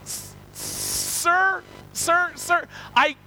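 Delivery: high, loud, stammering comic protest; mock flustered stammer. Standing visitor refusing the banjo to pastor, mock flustered.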